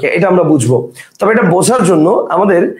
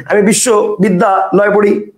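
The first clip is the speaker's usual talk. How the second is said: বিশ্ববিদ্যালয় split into three parts with short pauses; broken into chunks. Shown as a demonstration. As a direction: pause between bissho, bidda and loy. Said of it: "বা এইভাবে বলেন". (বিশ্ববিদ্যালয় তিন ভাগে ভেঙে)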